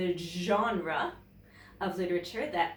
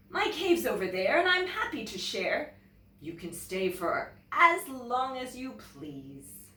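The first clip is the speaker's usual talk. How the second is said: cheerful, higher welcoming bear; hospitable bear; 4 semitones higher than usual. Acted. Bear offering his cave to the polar bear, welcoming. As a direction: invite him in gladly.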